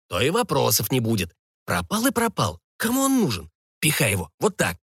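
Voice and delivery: lightly acted brusque ringleader, pitch swinging up; dismissive thug. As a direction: wave off your accomplice's doubts. (пренебрежительный злодей, слегка сыгранный)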